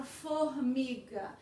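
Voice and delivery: "formiga" split into for, mi, ga; teacher spacing out each syllable of "formiga". Shown as a demonstration. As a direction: sound out "formiga" in separate, measured syllables. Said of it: "separação de sílabas".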